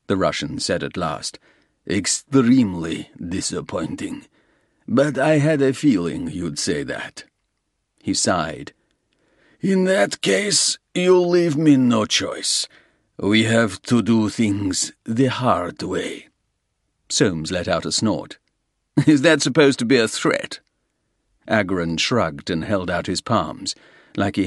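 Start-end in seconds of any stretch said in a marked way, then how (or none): 1.9-16.3 a lightly voiced Russian gangster, smooth and sure; menacing Russian. Russian gangster offering Soames a deal, smooth menace. 19.1-20.6 higher, louder, sneering question; mock the threat; scoffing challenge. Soames scoffing at the Russian's threat, sneering.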